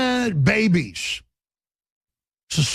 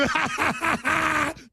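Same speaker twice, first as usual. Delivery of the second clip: mock evil laugh; 9 semitones higher, 4 dB quieter than usual.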